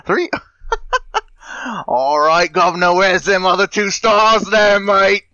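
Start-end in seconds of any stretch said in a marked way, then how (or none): 1.9-5.2 higher, louder mock Cockney accent; hammed-up Cockney heckle; bad Cockney voice. Cohost heckles the reviewer in a hammed-up Cockney accent. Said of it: "a bad voice".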